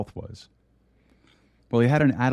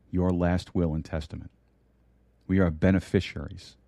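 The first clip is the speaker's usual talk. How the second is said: hushed pulpit prayer to the Father; closing prayer. Acted. Preacher closing the sermon with thanks to God, hushed prayer.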